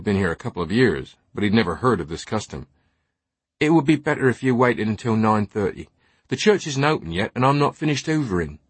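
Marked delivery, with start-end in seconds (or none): 3.6-8.6 lightly voiced young British church lad; altar boy, politely resistant. Altar boy putting off early visitors, politely resistant. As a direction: hold your ground as an unconvinced altar boy.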